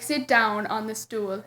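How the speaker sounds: put-on slow, quiet stab at a British accent; half-hearted British photographer imitation; attempted British accent. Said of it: "I can't do his accent, but he's like".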